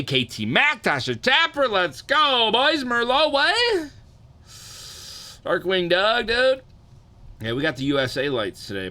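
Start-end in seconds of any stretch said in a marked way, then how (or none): 0.0-6.6 high, loud bro hype shouting; frat bro. Real, not acted. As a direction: yell shout-outs like a hyped bro.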